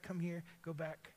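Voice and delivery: normal talking voice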